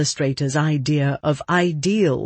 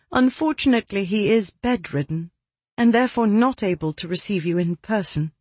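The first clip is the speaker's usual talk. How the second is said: put-on higher-pitched young lady; 5 semitones higher, faster than usual. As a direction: voice Miss Holmes a touch higher. Narrator voices Miss Holmes.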